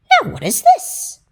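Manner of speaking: high, scared question; frightened mouse. Acted. The mouse hears an awful hiss in the dark, high frightened squeak. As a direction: squeak it out in alarm. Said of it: "said the mouse".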